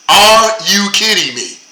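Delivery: "are" stressed, a loud incredulous question; exasperated disbelief. Real, not acted. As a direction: drag it out in disbelief. Repeated in disbelief.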